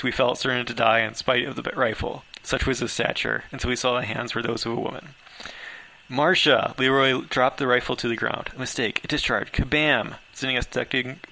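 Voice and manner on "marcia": calling out. Acted. Recognizing a friend, calling out.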